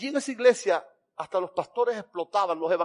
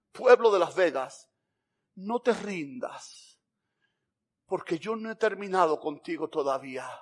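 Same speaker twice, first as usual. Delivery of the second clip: tender reassurance. Acted. Jesus speaks to the congregation.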